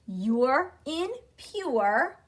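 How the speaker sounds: "You're in pure" drawn out slowly, sound by sound; sound drill. Shown as a demonstration. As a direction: say YOO-ER as in PURE for learners to repeat. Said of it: "you are in pure sounds like long O".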